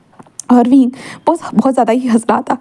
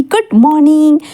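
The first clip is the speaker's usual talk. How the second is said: shouted wake-up greeting, pitched up; loud shout; 5 semitones higher, slower than usual. Acted. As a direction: yell it to jolt them awake. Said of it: "ऐसे ज़ोर से चिल्लाकर बोलते हैं".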